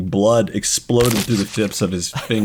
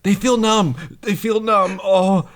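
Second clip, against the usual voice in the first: higher, fast, trembling apology; shaky Rory; 8 semitones higher than usual. Acted. Rory in shock apologizing to Tina. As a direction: rush it out in shock. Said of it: "Rory in character".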